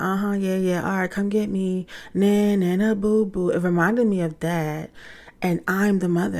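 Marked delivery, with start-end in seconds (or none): 0.0-3.5 mock taunting. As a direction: imitate a kid taunting his mother from a distance. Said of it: "it was, like, taunting".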